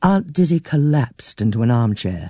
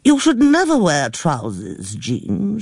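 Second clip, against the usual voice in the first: put-on high, fussy old lady near tears; a fretful elderly aunt complaining breathlessly; flustered old aunt; 4 semitones higher, slower than usual. A narrator's reading. Old aunt complains to her niece, higher and fussy.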